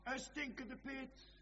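high, urgent pulpit declamation; impassioned preaching. Acted. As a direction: preach it in a high, driving chant. Preaching at full force.

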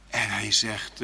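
normal talking voice

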